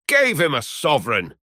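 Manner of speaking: incredulous cry, pitched high without real shouting; mock yell. A narrator's reading. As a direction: echo it back high in amused disbelief. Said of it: "shouted Trevor".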